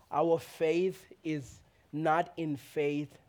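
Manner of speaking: slow, weighted words; emphatic line. Shown as a demonstration. Pastor quoting another pastor's saying. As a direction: lean on each word. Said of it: "Another pastor said it this way".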